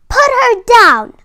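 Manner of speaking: high shouted demand to free her; cry. A narrator's reading. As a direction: yell it out to rescue Clarice. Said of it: "cried Rudolph".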